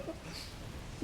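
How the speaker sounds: high, slow laugh through the words. Real, not acted. Streamer recalling the teammate, laughing. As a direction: crack up while remembering.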